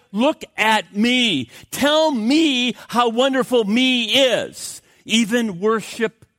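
slow, drawn-out look at me; vain self-glory. Pretend. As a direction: savour every word of self-worship. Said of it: "This time it's".

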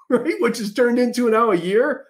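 laughing through the words; real chuckle breaking into the question. Real, not acted. Vlogger laughing at the governor's two-week pause. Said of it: "I'm sorry, I'm laughing".

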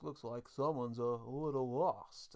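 lightly imitated slow newsreader voice; drawn-out mock news anchor delivery; Tom Brokaw. Co-host quoting a cartoon gang of newsmen, lightly imitated anchor voice. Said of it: "I just find the voice funny".

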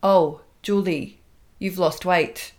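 slow, automated robotic delivery. Retold or imitated. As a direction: say it like a programmed machine. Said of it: "like it's automated, like it's a robotic response".

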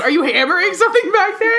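high, loud called question; calling out. Retold or imitated. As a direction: shout it through the wall. Neighbor calling out.

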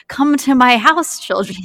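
lightly voiced witch luring kids. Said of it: "I literally feel like a witch who's like".

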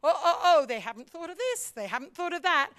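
laughing, oh oh oh they missed this; half-laughing worry; fretful laughing aside. Retold or imitated. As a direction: supporter noticing gaps, amused. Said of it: "And you're thinking".

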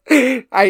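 sudden high, loud burst of laughter. Real, not acted. Hearing a friend's crude joke, high loud burst of laughter.

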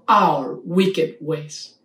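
slow, with our wicked ways weighted and our leaned on; stress on our. Shown as a demonstration. Preacher stressing our to the congregation, slow and weighted. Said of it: "Let me emphasize the word our wicked ways".

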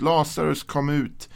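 calling out high and loud; a ringing command to come out. A narrator's reading. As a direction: call the dead man out of the tomb. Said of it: "ropade han med hög röst".

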